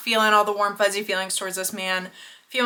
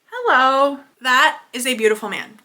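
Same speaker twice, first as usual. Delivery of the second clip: flirty hello; 3 semitones higher, 4 dB louder than usual. Real, not acted. Reacting to attractive actor photo.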